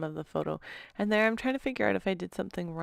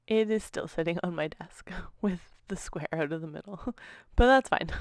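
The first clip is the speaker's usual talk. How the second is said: laughing; 3 dB louder than usual. Real, not acted. Laughing at own paper mistake.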